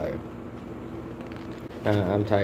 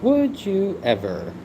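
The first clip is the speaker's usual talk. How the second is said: much higher, slow, drawn-out title call; game show announcer; 11 semitones higher, much slower than usual. Acted.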